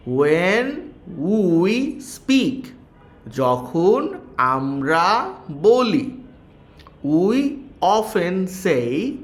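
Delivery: slow, careful reading to pupils; slow read-aloud. Shown as a demonstration. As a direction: read each English phrase slowly like a teacher. Reads English text slowly to class. (ধীরে ধীরে শিক্ষকের মতো পড়া)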